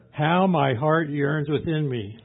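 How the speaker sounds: loud, slow, impassioned reading; fervent longing. Retold or imitated. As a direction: cry out the yearning, drawn out. Same verse repeated with fervour.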